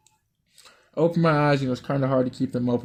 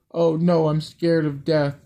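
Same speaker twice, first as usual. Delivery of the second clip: mock scared plea; 3 semitones higher, 4 dB louder, slower than usual. Girl's mock plea in story.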